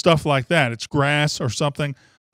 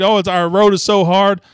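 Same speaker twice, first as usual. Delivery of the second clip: whiny coach; 3 semitones higher, 5 dB louder than usual. Retold or imitated. Host mocking Calipari's complaint about his draw, whiny mock voice. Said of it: "all John Calipari did was whine".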